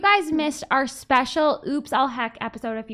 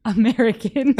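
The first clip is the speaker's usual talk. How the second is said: retold reply; 3 dB louder than usual. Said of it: "And Eddie says".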